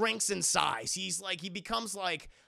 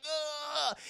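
pained groan; 7 semitones higher, 3 dB quieter than usual. Retold or imitated. Arm broken again.

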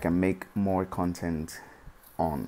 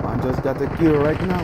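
put-on Dominican accent; 7 semitones higher, 9 dB louder than usual. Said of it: "we using the Dominican accent today".

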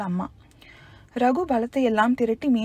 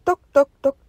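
knocking sound; 3 semitones higher, 7 dB louder, faster than usual. A narrator's reading. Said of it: "என்று மறுபடியும் சத்தம்".

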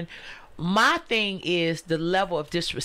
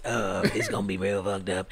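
auntie voice; 8 semitones lower than usual. Shown as a demonstration. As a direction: talk like a Black auntie. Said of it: "this my auntie voice".

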